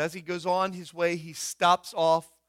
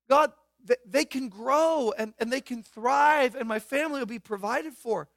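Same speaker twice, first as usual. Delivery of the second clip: pleading Isaac; 4 semitones higher than usual. Pretend. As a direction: bargain with God, a bit anxious. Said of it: "I kinda put myself in Isaac's place".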